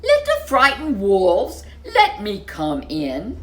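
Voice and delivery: loud laughing big bad pig; mocking chuckle at the door; pig taunting. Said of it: "the pig rang the bell and said".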